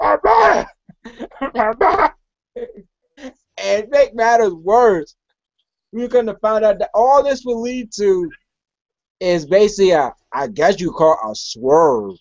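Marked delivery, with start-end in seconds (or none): 0.0-2.2 high, funny-sounding yell, like gargling. Mocking the wrestler's yelling again: imitating James Storm's gargly yell. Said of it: "You gonna gargle some Listerine?".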